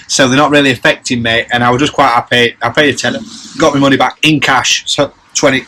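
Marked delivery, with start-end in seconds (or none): 4.9-5.6 hiccuping mid sentence; hiccups. Real, not acted. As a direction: talk through hiccups. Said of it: "I'm just hiccuping".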